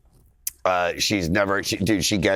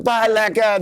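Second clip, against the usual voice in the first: high, louder sing-song goodbye; cooing goodbye; 12 semitones higher, 4 dB louder, slower than usual. Retold or imitated. Comedian retelling waving off his dog, high sing-song coo. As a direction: coo it like a proud dog parent. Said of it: "And I'm like".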